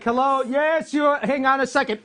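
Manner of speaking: mock shout. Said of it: "this is what I'm gonna do".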